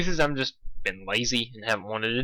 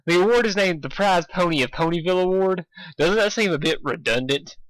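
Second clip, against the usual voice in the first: put-on young dragon voice; 6 semitones higher than usual.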